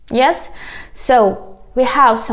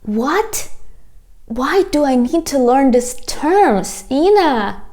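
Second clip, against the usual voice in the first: lightly acted baffled student question; a touch of protest, pitch lifting slightly; puzzled student; 3 semitones higher than usual. Teacher voicing a student questioning her, mildly baffled. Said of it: "You can ask me".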